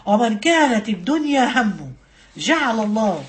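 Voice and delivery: slow, measured recital; hadith recitation. Real, not acted. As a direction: recite it phrase by phrase, with pauses. Recites the hadith once more.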